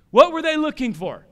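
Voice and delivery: pressing the congregation for the answer. Shown as a demonstration.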